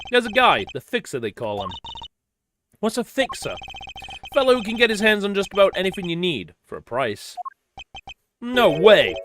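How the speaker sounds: lightly acted character lines, a hint of each voice; voiced game dialogue reading. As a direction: read the scene as the cast, lightly voiced.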